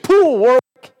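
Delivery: high loud yell to the mule. Retold or imitated. Farmer finally calling his mule by name, yelling. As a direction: call the name out hard across the field. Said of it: "And then he said".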